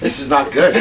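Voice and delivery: tipsy, laughing at himself. Real, not acted. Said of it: "I'm a little tipsy right now".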